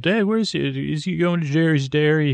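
a hint of a kid calling to dad; kid yelling. Kid calls to dad from the gnome home, mild mock yell. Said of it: "one of the kids yelled".

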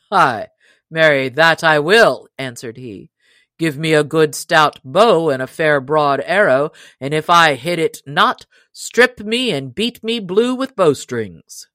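a hint of a stubborn giant daring them; loud, defiant boast, lightly acted; lightly voiced proud stranger.

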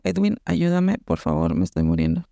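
sinking very low, a hammed-up dying whimper; mock dying plea. Begging her coworker Edwin to save her, low mock dying plea. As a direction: play it like you're fading away.

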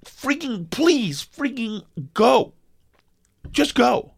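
stuck driver begging the chatty customer to go; pleading exasperation. Retold or imitated. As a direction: beg her to leave, at wit's end. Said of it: "it's like".

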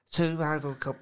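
put-on mincy, botched West Country accent; Kai's accent. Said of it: "if I can do your accent".

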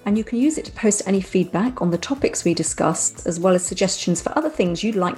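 measured presenter's outro read; scripted podcast sign-off. Real, not acted. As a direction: read the closing notes to listeners. Reads the show's closing script.

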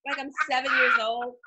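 high, whiny indignant complaint. Real, not acted. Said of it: "These are very dramatic hiccups".

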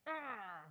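acted-out groan of exasperation; mock frustrated cry. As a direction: imitate someone exasperated by waiting. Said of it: "you're like".

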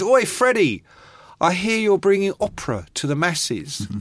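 a hint of a taunting punk; imitating a punk musician. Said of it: "and he goes".

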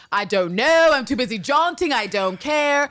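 loud, high, indignant brush-off; high-pitched, pushy New York dismissal; brash New Yorker. Retold or imitated. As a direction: snap it out like a fed-up New Yorker. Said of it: "And the New Yorker in me".

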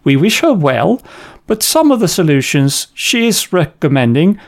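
a mock posh British official; lightly put-on British accent, stern but polite; most British voice. Host mocking the NHS director, mild British accent. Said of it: "imagine this in the most British, uh, voice".

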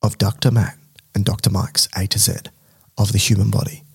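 low mysterious radio voice; disguised deep voice. Pretend. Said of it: "I think I sound better on the microphone when I talk like this".

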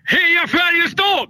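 put-on cheering in a Stockholm accent, high and slow. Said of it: "ropar heja Färjestad på stockholmska".

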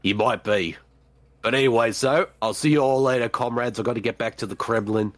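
low put-on character voice; Russian Crow. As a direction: sign off as the deep-voiced comic alter ego. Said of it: "It's Russian Crow".

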